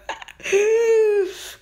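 very high, tense squealing laugh; nervous squeal. Real, not acted. Tense wait for the hatch.

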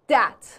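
THAT said as "dat"; wrong d sound. Shown as a demonstration. Teacher showing what not to say, "that" with a d. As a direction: start "that" with a hard d. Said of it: "نمیگم".

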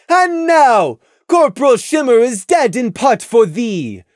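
high, loud, slow scolding; furious princess reproach; stern royal rebuke. A narrator's reading. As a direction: condemn him from the throne. Luna rebukes Prey.

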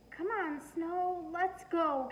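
put-on high, eager little girl calling for snow; little girl's voice. A narrator's reading. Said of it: "Cassie said".

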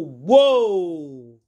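long, drawn-out "whoa" that swoops up and falls away; mimicked crash heard from outside; imitated commotion.

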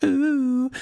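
high-pitched ooh squeal. Acted. Squeal in comedy bit.

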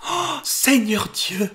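dismayed cry. Acted. Maid learns the necklace was stolen, cries out in dismay. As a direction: gasp it out, stunned by the theft. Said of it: "s'écria-t-elle".

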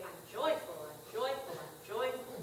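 chanting I'm joyful in a hollow, mocking way; mock affirmation. Preacher mocking self-help affirmations, hollow chant. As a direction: parody a self-help mantra, lightly. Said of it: "personal affirmations that I might say".

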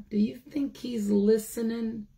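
hushed whisper. Real, not acted. The teacher asks the children again in a whisper. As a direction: breathe the question like a secret.

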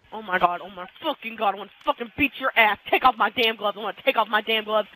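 low muttered anger; quiet simmering frustration; seething. Real, not acted. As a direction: mutter threats low and quick. Angry threats after losing.

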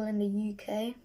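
speaking into a drink can; talking behind a can. Real, not acted. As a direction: hand over mouth. Seen 1: Can held before face, hand covering mouth while speaking.

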